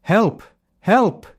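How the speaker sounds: high, loud cry for help that is only a prank; fake alarm shout. Shepherd boy tricking villagers with a loud wolf cry. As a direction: yell to fool the village below. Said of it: "he cried out".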